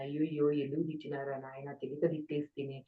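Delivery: understated regret, softly self-reproaching; retold remorse. Speaker recalls scolding herself after an angry outburst, mildly remorseful. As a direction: quietly lament to yourself, as if replaying it. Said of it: "పశ్చాత్తాపడేదాన్ని".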